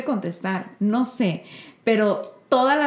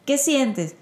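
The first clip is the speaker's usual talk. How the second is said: calm and gentle; 4 dB quieter than usual. Retold or imitated. Mother calmly comforting her upset son. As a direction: soothe a frustrated child quietly. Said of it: "no sé qué hada me iluminó".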